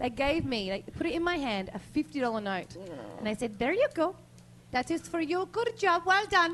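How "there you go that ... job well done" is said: put-on Scandinavian accent. Retelling people handing over a fifty dollar note as a tip, fake Scandinavian accent. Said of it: "It's kind of Scandinavian".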